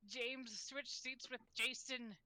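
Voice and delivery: slow, lightly voiced teacher giving out partners; a hint of a teacher reading a seating plan; teacher's voice. Reader voicing the teacher for the class scene, lightly slow. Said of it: "I have to do the teacher's voice too".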